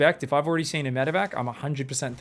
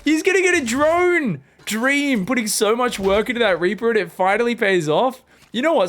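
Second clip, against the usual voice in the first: hyped call; 8 semitones higher, 7 dB louder than usual. Real, not acted. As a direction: keep riding the excitement. Caster hyping the kill.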